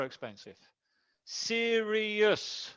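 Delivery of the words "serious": "Serious" stretched out, se-ri-ous, pitched higher; drawn-out syllables. Shown as a demonstration. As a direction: draw out each syllable of "Serious". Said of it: "three syllables".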